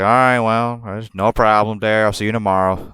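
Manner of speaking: a casual redneck sign-off; Tommy's redneck accent. Retold or imitated. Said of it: "I'm gonna do it in a redneck accent".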